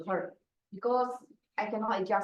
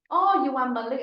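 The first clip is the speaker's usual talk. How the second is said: mock surprised customer; 4 semitones higher, 5 dB louder, faster than usual. Customers repeat same mistake.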